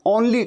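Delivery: only said "AWN-lee" like students; students' mispronunciation. Retold or imitated. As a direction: imitate learners opening only with "aw". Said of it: "only कहते हैं".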